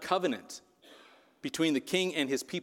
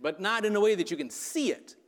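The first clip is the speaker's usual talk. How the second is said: "see" lifted with a rise; stress on see; 5 semitones higher than usual. Shown as a demonstration. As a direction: lean on "see" and let it rise. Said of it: "if we emphasize different words in that sentence".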